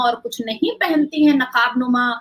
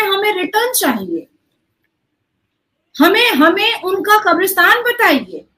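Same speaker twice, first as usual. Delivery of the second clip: higher-pitched, forceful accusatory questioning; indignant demand; 5 semitones higher than usual. Real, not acted. Panelist demanding answers about missing Hindu brothers and sisters, indignant. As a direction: demand answers with raised, insistent voice.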